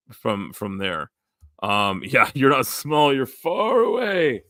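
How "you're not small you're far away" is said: put-on quoting in a higher-pitched Father Ted accent. Quoting a Father Ted line to the group, in its accent. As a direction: have a go at the Father Ted accent, drawing out the last words. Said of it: "That's from, uh, Father Ted".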